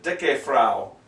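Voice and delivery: "Dicke Frau" with "Dicke" in two syllables; sounded final E. Shown as a demonstration. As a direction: say the E at the end of "Dicke". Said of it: "you pronounce it".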